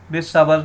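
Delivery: بالصبر with a zabar on the ب; another wrong reading. Shown as a demonstration. Teacher shows another wrong reading of بالصبر. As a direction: read بالصبر wrongly with a vowel after ب. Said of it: "تو یہ بھی غلط ہے".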